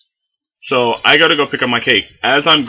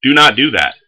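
pleading; 5 semitones higher, 5 dB louder than usual. Retold or imitated. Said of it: "And I was like".

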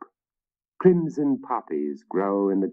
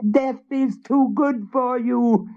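high hag with a cackle, slow on forever; furious witch; slower than usual. A narrator's reading. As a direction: gloat over his doom. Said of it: "turning on Willem with fury".

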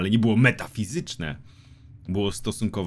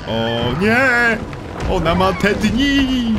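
mock panic; 8 semitones higher, 4 dB louder, much slower than usual. Real, not acted. Fleeing an angry monster.

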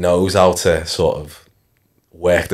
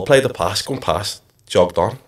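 ordinary talk, nothing marked

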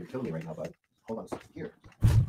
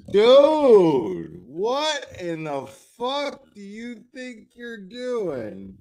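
loud, higher outburst at the dog; angry yell; 8 semitones higher, 9 dB louder, slower than usual. Real, not acted. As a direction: blow up at the dog for misbehaving. Yelling at dog on stream.

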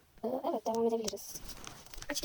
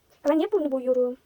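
loud, slow exclamation at her own mistake; dismayed outburst; 10 dB louder, slower than usual. Real, not acted. Artist catching her own slip, loud dismayed outcry. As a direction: groan it out loud, dragging each word.

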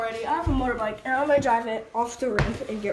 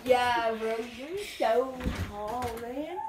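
mock awed friend; slower than usual. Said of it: "you're my height".

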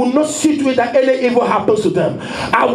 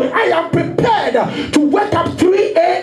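fervent preaching; 3 semitones higher than usual. Acted. Pastor to congregation, voicing a devoted follower in full preaching cry. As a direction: pour it out to the congregation.

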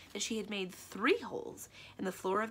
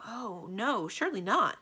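raised, protesting disbelief; shocked; 4 semitones higher, 6 dB louder than usual. Acted. Magician refusing to believe the accusation, shocked. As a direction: protest in shock, louder at the end. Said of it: "Aramin was very shocked".

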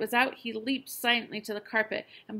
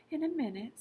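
soothing; 7 semitones higher than usual. A narrator's reading. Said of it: "soothed his mother".

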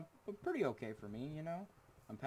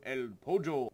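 playful call; 3 semitones higher, 9 dB louder than usual. Pretend. Playful chicken shout, first take.

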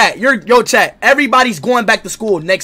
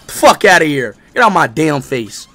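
punchy mock dismissal, falling at each end; dismissive taunt; 5 semitones lower, 3 dB louder than usual. Streamer taunting in a voice memo, dismissive. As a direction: wave them off with a falling voice. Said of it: "just do a voice memo".

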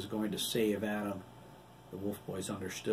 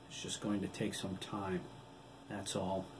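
sniffling; 8 dB quieter than usual. A narrator's reading. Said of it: "he sniffled".

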